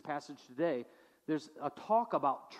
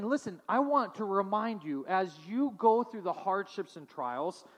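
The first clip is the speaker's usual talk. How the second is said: raised, earnest exhortation; James exhorting; 4 semitones higher, 4 dB louder than usual. Retold or imitated. James urging suffering believers, earnest and raised. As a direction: plead with them, pressing each word. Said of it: "he's saying".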